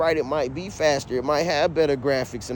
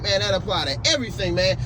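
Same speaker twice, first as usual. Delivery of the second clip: heated argument; 4 semitones higher than usual. Retold or imitated. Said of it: "damn near shouting match".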